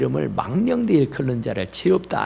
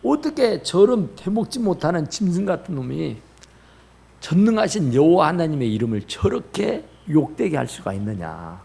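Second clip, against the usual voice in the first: young David's indignation, mildly voiced; preacher acting out indignant disbelief; righteous indignation. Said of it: "의분이 나는 거예요".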